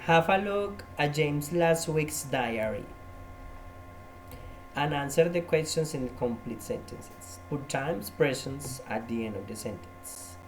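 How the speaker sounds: slow, careful reading of the instructions; slow read-aloud. Shown as a demonstration. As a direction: read each word out for the class. Teacher reads exercise instructions aloud.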